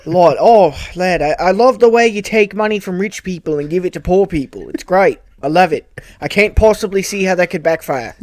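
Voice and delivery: put-on Australian gushing; admiring Australian. Australian character praises politician guest, mock-admiring Australian accent. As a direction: praise him in a light Australian voice. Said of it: "meet our friend here".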